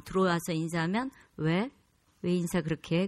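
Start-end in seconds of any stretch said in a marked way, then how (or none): 1.4-3.1 terse, composed senior voice, no shouting; cool, controlled question to unnerve a junior; low, calm intimidation. Shown as a demonstration. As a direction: keep it short and laid low. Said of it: "목소리를 딱 내리깔고 침착하게 얘기하면".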